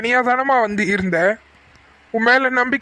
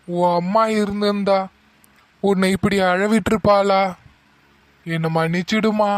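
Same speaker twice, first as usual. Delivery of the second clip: gentle apology. Acted. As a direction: soothe the crying daughter. Father apologises to crying daughter. (மென்மையான மன்னிப்பு)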